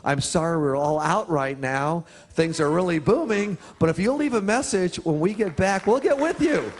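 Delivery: imitated British answering-machine message, climbing in pitch; a hint of mock-British phone voice; British accent. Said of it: "she would continue to say".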